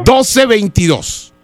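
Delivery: drawn-out digits falling at the end; slow dictation. Acted. Prank caller finishes dictating his phone number, slow dictation. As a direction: dictate the number at half speed.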